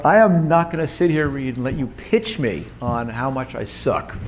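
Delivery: firm retold protest. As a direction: stop him mid-pitch, half joking. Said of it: "I had to stop him".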